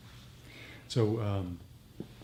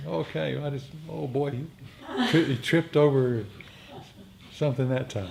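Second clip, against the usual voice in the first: gleeful laugh; 4 semitones higher, 5 dB louder than usual. Pretend. Gleeful mock report, laughing.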